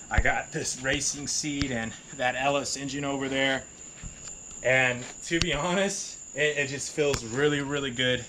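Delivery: muffled behind a face mask; talking through a mask. Real, not acted. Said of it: "Excuse the mask, covid".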